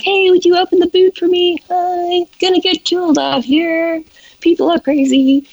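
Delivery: high, urgent plea to open the boot; half-panicked, rushing him; frantic pleading. Retold or imitated. To her American partner in peak traffic, a high frantic plea.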